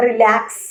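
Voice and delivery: റിലാക്സ് with a light first syllable, weight on the second; second-syllable stress. Shown as a demonstration. Teacher shows a verb example, റിലാക്സ് stressed on its second syllable. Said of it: "second സിലബിളിലായിരിക്കും അതിൻ്റെ stress".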